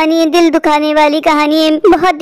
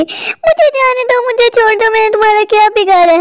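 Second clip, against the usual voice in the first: high frightened begging; pleading victim; 4 semitones higher than usual. Acted. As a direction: beg for your life.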